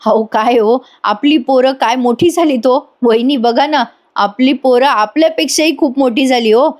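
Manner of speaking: an uncle overcome with pride, slowing on the key lines; proud emotional uncle. Acted. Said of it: "आता मिथुन काका पण बोलतात बरं का, ते म्हणतात".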